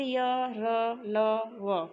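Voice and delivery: य, र, ल, व drawn out very slowly with little breath; slow letter demo. Shown as a demonstration. Teacher having students try the semivowels, said very slowly. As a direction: stretch out each of य, र, ल, व, separate and light. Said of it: "स्वयं उच्चारण करके देख लीजिए".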